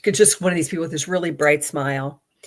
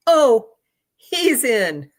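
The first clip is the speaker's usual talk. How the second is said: offhand certainty; 6 semitones higher, 6 dB louder, much slower than usual. Retold or imitated. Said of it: "says that to me like that".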